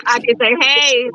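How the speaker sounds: talking without teeth; gummy, toothless speech. Real, not acted. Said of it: "I had a full mouth of teeth and now I don't".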